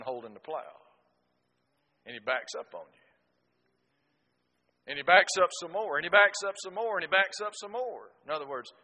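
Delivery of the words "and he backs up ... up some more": louder and higher each time, exasperated; rising exasperation. Retold or imitated. Telling the congregation about the stubborn mule, exasperated and building. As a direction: build the frustration with every repeat.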